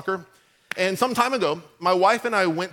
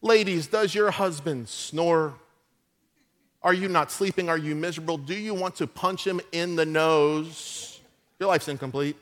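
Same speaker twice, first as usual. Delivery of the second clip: mock infomercial. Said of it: "Like, watch this".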